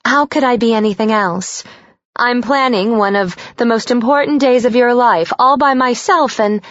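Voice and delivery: high, anxious, pushy mom voice; a worried mother scolding her daughter; fretful mother. Acted.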